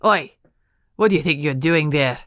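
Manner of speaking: a guard booming at an intruder; loud, sudden challenge from behind; booming shout. A narrator's reading. Andrew shouting at Kate caught at the door, booming. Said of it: "a voice boomed behind her".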